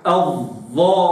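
الظالمين with a doubled, emphatic ẓā; الظالمين with a heavy, doubled ẓā. Shown as a demonstration. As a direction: press the shadda on the ẓā in الظالمين. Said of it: "تشدد الضاء".

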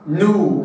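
نو with the noon moved by a rounded damma. Shown as a demonstration. Teacher sounding the noon with damma. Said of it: "مضمومة".

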